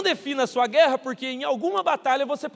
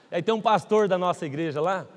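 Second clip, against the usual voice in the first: ordinary talk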